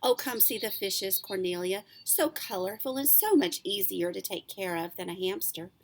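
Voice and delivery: put-on reading a chapter book aloud to kids; story narration. A narrator's reading. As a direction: tell it like a bedtime story, lively. Held story narration to children.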